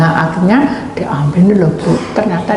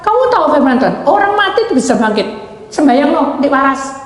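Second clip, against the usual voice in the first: insistent husband; 9 semitones higher than usual. Retold or imitated. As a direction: press her to pray instead. Husband insisting on prayer healing.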